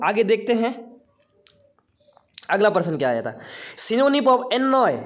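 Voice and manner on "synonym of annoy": slow dictation. Shown as a demonstration. Reading question to the class.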